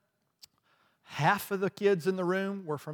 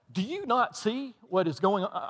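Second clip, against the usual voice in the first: exasperated protest; 5 semitones higher than usual. Retold or imitated. Arguing with the Holy Spirit.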